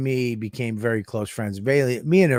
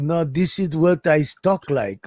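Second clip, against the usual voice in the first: imitating a woman's put-on Russian accent; mock Russian accent, insisting it's real; Russian-accented retelling of her protest; fake Russian accent. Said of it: "with this Russian accent the whole time".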